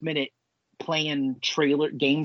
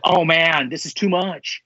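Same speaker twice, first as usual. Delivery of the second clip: raised-pitch awed reaction; mock overwhelmed; 2 semitones higher, 3 dB louder than usual. Fan voicing a viewer when Nicolas Cage shows up, overwhelmed. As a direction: act out a thrilled viewer.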